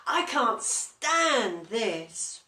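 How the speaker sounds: slow, loud and exasperated; slow, loud, weary grumble; fed-up complaint. Acted. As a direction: drag it out like a sleepless grumpy bear. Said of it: "said Mister Bear".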